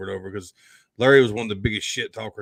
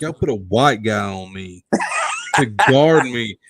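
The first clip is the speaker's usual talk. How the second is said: retold shout; 6 dB louder than usual. Retold Larry complaint, shout heard.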